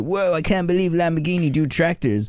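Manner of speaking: high, amazed retold whoa. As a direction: recall the shock of seeing it.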